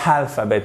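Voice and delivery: alphabet begun with a breathed H, "halphabet"; added H. Shown as a demonstration. Teacher showing there is no H, added H sound. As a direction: put a wrong H before "alphabet". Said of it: "il n'y a pas de H".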